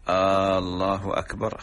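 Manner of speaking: آه، الله said with a stretched first vowel, as a question; questioning Allah. Shown as a demonstration. Sheikh showing muezzins' error that voids the adhan, questioning Allah. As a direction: draw out the opening A of الله like a query. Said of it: "هذا استفهام إنكاري".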